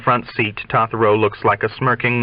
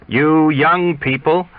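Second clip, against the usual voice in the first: higher, slow, scolding yet sly; schoolteacher's tone; 8 semitones higher, 3 dB louder, slower than usual. Acted. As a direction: chide them like a sly old teacher. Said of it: "with a rising intonation, a schoolteacher's tone".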